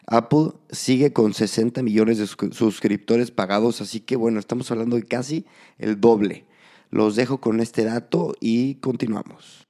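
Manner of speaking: hoarse from a cold; a bit raspy and under the weather. Real, not acted. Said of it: "perdonen mi voz ronca".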